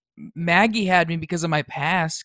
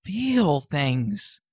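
rising anger, louder as it goes; angry outburst; 3 dB louder than usual. Acted. Teen snapping at counselor about his mother, angry. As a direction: snap back, defending himself hard.

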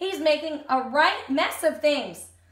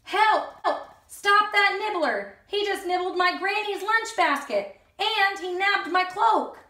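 alarmed Red Riding Hood; 5 semitones higher than usual. Acted. Red Riding Hood calling after Nibbles, high and alarmed. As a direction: shout for someone to stop the thief.

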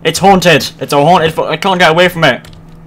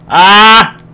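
startled yelp; 5 semitones higher, 7 dB louder than usual. Real, not acted. Startled by game.

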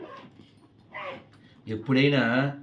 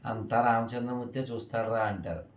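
softly spoken, unruffled father's reply; very calm; 3 semitones lower, 6 dB quieter than usual. Retold or imitated. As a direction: answer his son calmly and quietly. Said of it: "ఆయనేమో చాలా శాంతంగా". (చాలా శాంతంగా)

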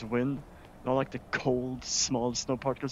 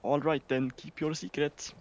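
mock Swedish accent; 3 semitones higher than usual. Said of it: "her fucking accent".

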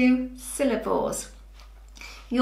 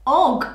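og said on its own, louder and drawn out; og ending stressed; 2 semitones higher, 5 dB louder than usual. Shown as a demonstration. Teacher pointing out the og sound in log and frog. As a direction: pull out the og sound for the children. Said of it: "I can hear".

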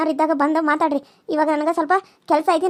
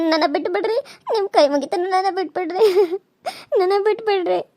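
sobbing plea. Acted. Begging to be released.

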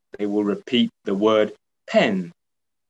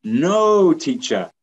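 pupil answer; 4 semitones higher, slower than usual. Pretend. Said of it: "Does it have the P sound?".

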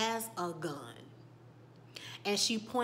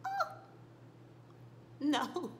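dismay; 8 semitones higher than usual. Real, not acted. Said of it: "I said".

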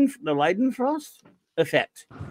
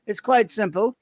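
put-on fast, higher posh English butler accent; Jeeves accent; 4 semitones higher than usual. Host teases listener Max in a posh Jeeves accent. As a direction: answer like a haughty English butler. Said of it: "my annoyingly Jeeves accent".

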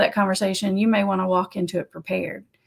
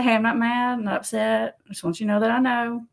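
casual. Shown as a demonstration. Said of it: "be casual and walk on".

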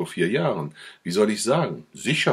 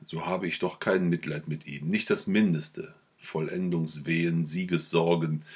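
usual speaking voice

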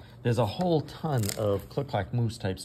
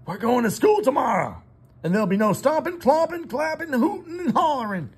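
much higher, bright listing voice; Farmer Brown to Duck; 7 dB louder than usual. Acted. Farmer Brown warns the meditating Duck, bright. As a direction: rattle off the banned noises.

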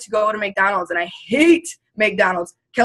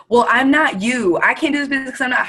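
mocking a doubter; 5 semitones higher, 3 dB louder, faster than usual. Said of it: "people will say to me".

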